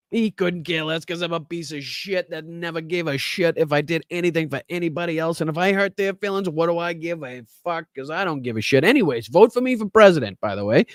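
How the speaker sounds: mock him as a careless egotist, rattling it off; mocking imitation. Host speaking as Trump to voters, mocking impression.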